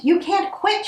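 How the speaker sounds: high, furious witch roar. Acted. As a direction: roar your outrage at them. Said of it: "she roared".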